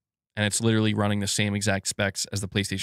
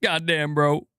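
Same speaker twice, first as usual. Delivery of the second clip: laughing amazement; 5 semitones higher, slower than usual. Retold or imitated.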